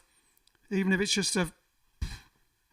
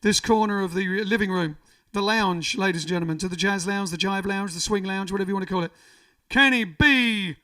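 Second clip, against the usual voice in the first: stage announcer. Acted. Introduces the band on stream.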